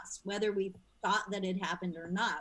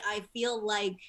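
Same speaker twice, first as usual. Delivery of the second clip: laughing quote; 10 dB louder than usual. Retold or imitated. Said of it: "They say".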